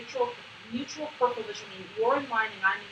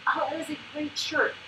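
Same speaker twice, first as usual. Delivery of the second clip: slow, higher-pitched compliment; cheery; 4 semitones higher than usual. Shown as a demonstration. Coach shows greeting someone coming in, cheery. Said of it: "is a kind of cheery thing".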